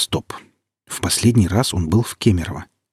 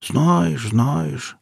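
put-on higher, mumbled old man's echo; mumbling old man; 7 semitones higher than usual. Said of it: "промямлил старик".

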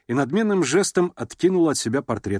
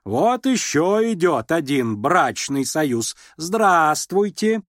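slow, higher, louder sarcasm; cold ironic greeting; 6 semitones higher, 4 dB louder, much slower than usual. A narrator's reading. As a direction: greet him icily.

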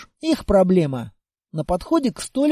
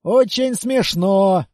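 dry sarcastic; 3 dB louder, slower than usual. Acted. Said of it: "хмыкнул сержант".

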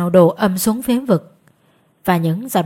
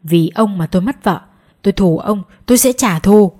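vengeful ghost, building louder; angry; 5 dB louder than usual. A narrator's reading. Ghost vows revenge on the man who felled it, angry. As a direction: accuse him, hitting the last threat hard. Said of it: "nó chỉ mặt tôi tức giận".

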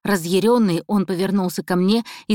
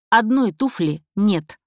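slow, weighted line, trailing off; deliberate slow hint; 2 semitones higher, slower than usual. Acted. Captive baiting the killer, slow and pointed. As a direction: drop the hint slowly and let it hang. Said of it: "нарочно оборвав конец фразы".

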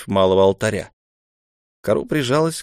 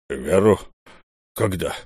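surprised; 2 semitones lower than usual. A narrator's reading. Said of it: "удивился другой голос".

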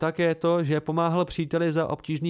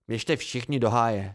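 slow, mildly angry low grumble; a hint of a hissed retort, slowed; 3 semitones lower than usual. Kvothe snaps at his teasing friends, slow and mildly angry. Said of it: "sykl jsem".

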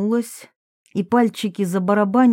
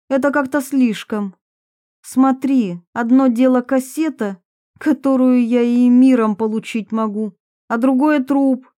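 raised pitch, mildly prickly confession; lightly voiced defensive Varvara; 4 semitones higher, 3 dB louder than usual. Varvara admits a youthful film to her accusers, mildly defensive. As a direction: confess with a touch of defiance.

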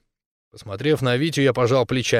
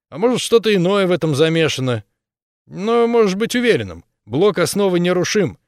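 higher, brighter hero voice; earnest young man, lightly raised; 3 semitones higher, 3 dB louder than usual. Acted.

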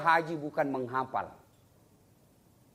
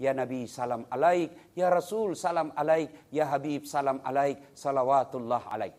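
salawat recitation; 2 semitones lower, 3 dB louder than usual. Shown as a demonstration. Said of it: "Angkat tangan kita ... Baru bersalawat".

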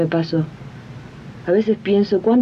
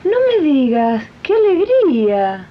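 delighted; 5 semitones higher than usual. Acted. Friend hears Rosa is pregnant.

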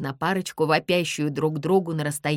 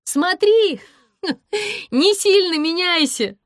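much higher, loud, laughing call; 12 semitones higher, 7 dB louder than usual. A narrator's reading. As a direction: laugh it down to him. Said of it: "Смеюсь".

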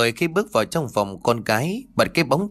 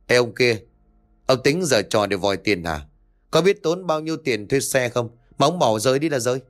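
irritated. Acted. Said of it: "ông hất hàm giọng đầy bực bội".

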